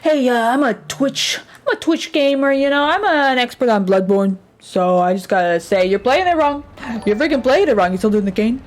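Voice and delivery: nasal know-it-all gamer; smug Twitch gamer know-it-all; nerd voice. Pretend. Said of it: "That's my nerd voice".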